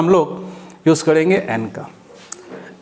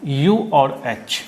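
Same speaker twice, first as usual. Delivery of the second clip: slow letter listing; 2 semitones lower, much slower than usual. Shown as a demonstration. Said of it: "इसके बाद ओ".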